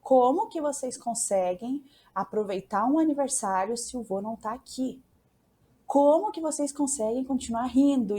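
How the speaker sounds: half-replayed furious shout at the party; retold angry outburst. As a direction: confront the family, loud and hurt. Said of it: "e gritei assim".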